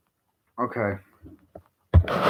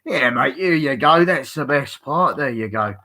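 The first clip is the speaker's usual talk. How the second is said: higher-pitched put-on British accent; 4 semitones higher than usual. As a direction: try your best mock British accent. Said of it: "your best fucking British accent".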